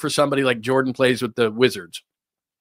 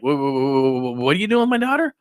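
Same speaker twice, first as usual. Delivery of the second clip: outraged father. Retold or imitated. Father confronting Belichick.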